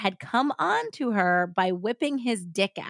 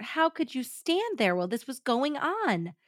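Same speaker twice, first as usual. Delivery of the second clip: higher-pitched, understated retold dismay; blurted reproach; 6 semitones higher than usual. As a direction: blurt it out, appalled at your friend. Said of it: "Gwen blurted out".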